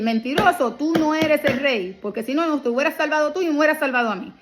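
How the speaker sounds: a lightly acted sneering thief; dramatized thief. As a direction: dramatize the criminal's scorn, lightly. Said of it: "Dramatizándola". (un malhechor burlón, apenas actuado)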